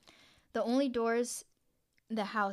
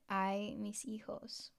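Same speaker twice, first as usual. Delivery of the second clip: slow drawn-out wail, lightly voiced; a hint of La Llorona's mournful cry; weeping ghost woman; 5 dB quieter, much slower than usual. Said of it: "she was wailing her trademark".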